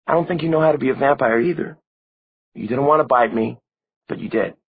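put-on a dead girl blaming the one who never came; young vampire girl Maureen, reproachful. A narrator's reading.

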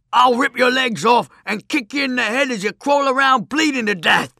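high, loud raving madman. A narrator's reading. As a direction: rave it out like a mad brute. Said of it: "said the madman".

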